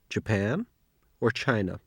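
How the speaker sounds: Japan rising, China falling; rise then fall. Shown as a demonstration. Teacher models an either-or question.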